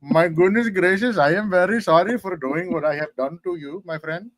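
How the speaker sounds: playful mock Indian accent, stretching the words; a joking Indian accent apology. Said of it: "such a good Indian accent".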